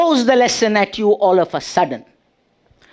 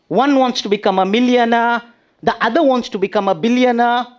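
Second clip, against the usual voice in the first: raised, stern teacher voice; teacher scolding; 4 semitones higher than usual. Retold or imitated. Teacher scolding her lazy pupil, stern and raised. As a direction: play the stern class teacher.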